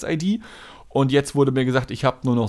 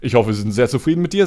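customer service voice; 3 semitones lower, faster than usual. Retold or imitated. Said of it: "so übertrieben freundlich".

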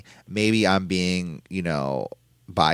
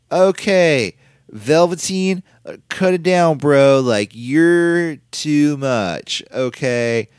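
mock surfer dude, pitched up; Roderick Strong; 6 semitones higher, 5 dB louder, much slower than usual. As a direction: imitate a worked-up dude on the mic, higher and louder. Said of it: "like, some surfer dude isms".

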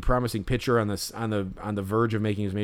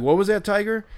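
much higher, louder mock taunt; mocking pitcher; 10 semitones higher, 6 dB louder than usual. Fan imitating a pitcher taunting a kid, mocking. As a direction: sneer it down at a kid. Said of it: "so he goes".

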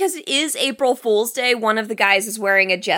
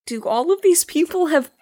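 incredulous mock; 9 semitones higher than usual. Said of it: "I was just like".

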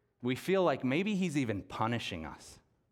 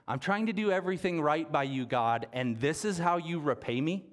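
accusing prayer; 4 semitones higher than usual. Retold or imitated. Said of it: "the heart language of a moment like that".

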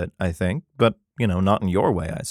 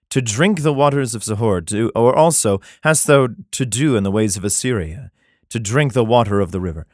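measured, solemn Bible reading; scripture reading; 2 semitones lower than usual. Acted. Comedian reads Jeremiah to his audience, solemn scripture reading. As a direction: read it like King James scripture.

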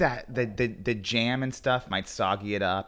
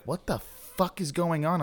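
higher, slowed-down bewildered question; slow confused alarm; 6 semitones higher, slower than usual. Retold or imitated. Waking among French fries, slow bewildered higher question. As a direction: drag it out, baffled. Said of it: "I was like".

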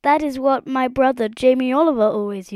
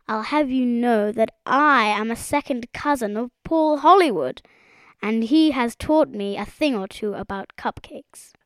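higher, self-important frog voice; boastful self-assurance; 4 semitones higher than usual. A narrator's reading. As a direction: show off your credentials grandly. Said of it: "with the air of one who could".

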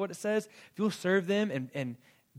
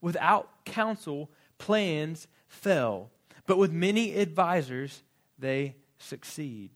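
slow, weighty reading of the verse; reading Proverbs aloud to the church; slow scripture reading; 3 dB louder, much slower than usual. Acted. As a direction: lay each phrase down slowly. Reads scripture verse slowly.

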